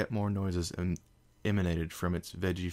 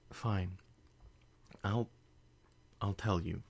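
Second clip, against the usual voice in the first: defeated; slower than usual. Acted. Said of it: "she said, defeated".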